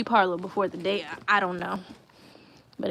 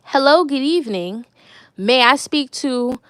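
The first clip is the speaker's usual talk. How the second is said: courteous phone greeting, demonstrated; respectful caller; 2 semitones higher, 3 dB louder than usual. Shown as a demonstration. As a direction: ask politely for someone on the phone. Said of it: "you have to be respectable".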